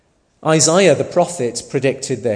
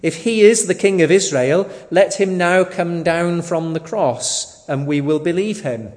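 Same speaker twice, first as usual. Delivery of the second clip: raised, emphatic taunt read from scripture; retold mocking; 4 semitones higher, 5 dB louder than usual. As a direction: quote the mockers with mild scorn, higher and firmer. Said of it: "mocking with the scribes and elders".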